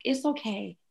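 a hint of a sweet six-year-old; imitating her daughter. Mother voicing her six-year-old daughter's forgiveness, gently childlike. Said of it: "she'd be like".

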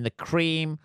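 slow, dreamy preaching of a saying; mock hippie mantra. To the audience, mocking his old self: slow, dreamy mantra. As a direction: drawl it out like a naive optimist. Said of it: "I'm one of these people who".

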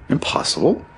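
high, rising question; incredulous echo. A narrator's reading. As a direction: throw the word back in disbelief. Friend echoes a refusal in disbelief.

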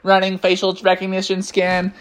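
robotic monotone announcement; Techno Bear. Acted. Robot bear surprises the garbage man, robot voice. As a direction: announce it on one note, machine-like. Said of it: "he popped out and said".

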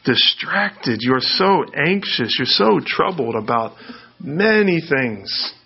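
slow, tender naming of worries; a hint of Jesus speaking gently; gentle. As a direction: lay it out slowly and kindly. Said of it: "He comes, he says".

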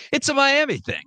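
high, teasing lilt. Acted. Ribbing his Miami guest about their school, high teasing lilt. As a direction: rib the rival school.

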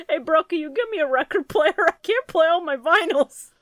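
high, loud put-on bro voice; obnoxious character. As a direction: pester like a whiny hipster. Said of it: "and just goes".

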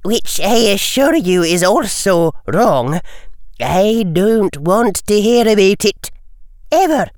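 lightly voiced stern older woman; a grave, worried professor; stern Scottish professor voice. McGonagall exasperated.

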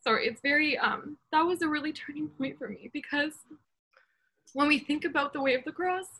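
holding back real crying as it breaks through; fighting back tears. Real, not acted. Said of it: "I'm trying not to get emotional".

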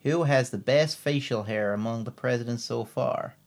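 attempted Louisiana landing in generic American; American accent. Shown as a demonstration. Co-host trying Louisiana for the podcast, American accent. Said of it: "That's my American accent".

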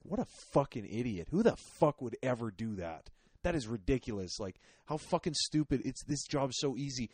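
acted indignant inner rant; mock outrage at clueless coworkers; pissed off. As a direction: rant as if appalled by the idiots around you. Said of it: "so you get extra pissed off".

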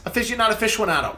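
AFICIONADO as fishy-uh-NAH-do, then fish-WON-ah-do; quick contrast of fishy-anado and fishwonado; aficionado both ways. Shown as a demonstration. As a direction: rattle off aficionado with and without the W glide. Sets both pronunciations side by side.

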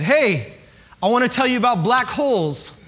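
put-on high, eager explaining to a toddler; animated lecture to a two-year-old; eager science lecture. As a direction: gush about black holes.

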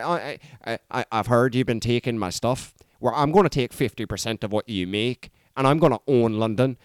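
low Northern Irish gangster voice; Northern Irish accent. Acted. Mobster laying claim to London, in a put-on Northern Irish accent. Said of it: "He starts off in a Northern Irish accent".

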